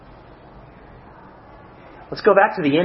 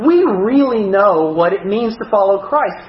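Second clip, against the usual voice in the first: mock boasting; 6 semitones higher than usual. Preacher parodying his own church's pride to the congregation, mock boasting. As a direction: play smugly superior, stretching the emphatic words. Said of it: "I don't go around talking like this".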